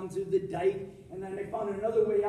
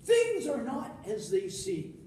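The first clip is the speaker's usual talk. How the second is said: slow deliberate refrain; 3 semitones higher, slower than usual. Acted. Recurring punchline refrain.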